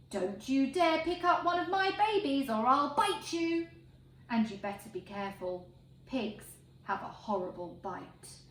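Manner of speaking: protective mother pig warning, fading to menace; a sow warning the farmer off her babies, threatening. Acted. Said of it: "aren't always sunny and good-tempered".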